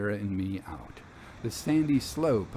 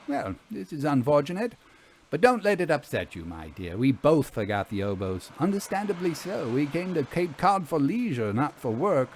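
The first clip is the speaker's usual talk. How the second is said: lightly voiced Vera, a touch higher; 4 semitones higher than usual. Vera consoles the narrator.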